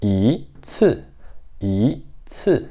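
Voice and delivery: "I ci" com o i subindo; segundo tom no i. Shown as a demonstration. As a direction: diga "I ci" com o i em tom ascendente. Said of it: "ele vai ser segundo tom". (professora corrigindo o tom do "i")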